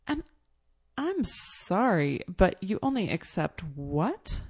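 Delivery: I'm sorry, but you ONLY accept what, with a rise at the end; incredulous question. Retold or imitated. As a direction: ask back as if you misheard. Indignant retort to the clerk.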